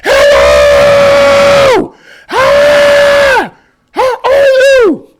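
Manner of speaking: very high, loud drawn-out scream; exaggerated all-out screamed hello; screamed greeting. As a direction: scream the greeting right in their face. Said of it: "I literally screamed it".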